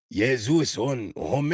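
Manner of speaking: slow, halting mock-French accent; deliberate, drawn-out French accent; attempted French accent. Shown as a demonstration. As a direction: try out French words in a clumsy put-on accent. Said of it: "That was terrible".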